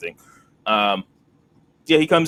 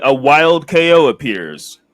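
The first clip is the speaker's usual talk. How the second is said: Pokemon game announcer; 3 semitones higher, 8 dB louder, slower than usual. Pretend.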